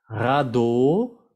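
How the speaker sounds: "Radeau" ending in a pure O, rising; French pronunciation demo. Shown as a demonstration. Teacher explains vowel letters to learners, "Radeau" ending in O. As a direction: say "Radeau" as "ra-do", voice lifting. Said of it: "que se pronuncia O".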